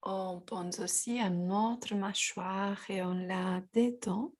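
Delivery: calm, unhurried guidance with long pauses; guided yoga. Real, not acted. Guides a gentle yoga practice.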